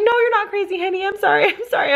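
high, placating voice; high-pitched mock soothing; retold soothing mom. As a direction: apologize hurriedly to an upset child. Mom soothing upset child in story.

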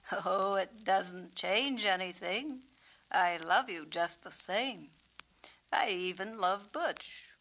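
gentle reassurance. Acted. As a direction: comfort her kindly. Peacock voice, reassuring.

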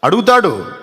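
a preacher's sudden loud emphasis; preaching shout. Real, not acted. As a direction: hammer the word home. Preacher stresses God asks.

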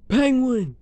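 shocked gasp calling out a friend's name. Acted. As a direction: gasp then cry out the name. Shocked at Penguin's state.

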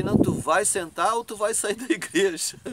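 a touch of anger in the retold threat; stern challenge. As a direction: confront him firmly. Retold confrontation in church.

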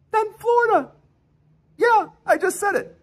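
surprisingly high squeak. Real, not acted. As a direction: let your voice crack up high. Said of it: "I didn't mean to say it in that high of a voice".

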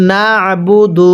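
না আবু দু with the ayn squeezed after না; pressed ayn. Shown as a demonstration. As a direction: press the throat sound in না আবু দু. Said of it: "আইনটা চাপ দিয়ে পড়ব".

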